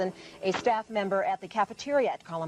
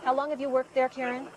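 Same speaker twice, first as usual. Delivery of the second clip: louder, clearer repeat of the question; 4 semitones higher than usual. Real, not acted. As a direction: say it again louder so she hears. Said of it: "No, no, not at all".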